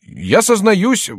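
very high, slow loud confession; jester posing as penitent. A narrator's reading. Jester resumes the king's confession, high mock penitence.

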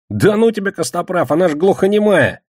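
high, loud scoffing disbelief; incredulous protest. Acted. Кегля hears who the White Rose is, incredulous.

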